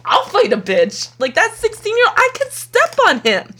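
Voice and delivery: mock tough talk. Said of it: "I was like".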